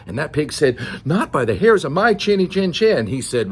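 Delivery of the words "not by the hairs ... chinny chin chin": higher, lightly voiced defiant pig; defiant little pig. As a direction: refuse the wolf in a raised pig voice. Second pig refuses the wolf.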